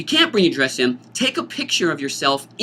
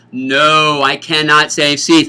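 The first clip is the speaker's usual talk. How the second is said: firm repeat; 7 dB louder, much slower than usual. Shown as a demonstration. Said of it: "Let me repeat that".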